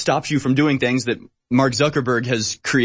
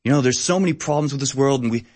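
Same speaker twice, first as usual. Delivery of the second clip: lightly voiced earnest campaign speech; socialist candidate. Host mocking a socialist candidate for his co-host, lightly voiced. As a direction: play a caring candidate with a hint of a stump-speech voice. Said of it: "I'm a socialist candidate and I'm like".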